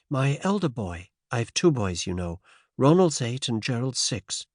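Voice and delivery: put-on faint transatlantic American accent; light American lilt, lifted pitch. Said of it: "faint transatlantic accent".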